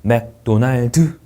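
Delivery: slow 맥도날드 with every syllable full; Koreanised 맥도날드; Korean syllable-by-syllable pronunciation. Shown as a demonstration. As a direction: say 맥-도-날-드, ending on an added vowel. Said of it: "음절을 계속 넣어서 발음하죠".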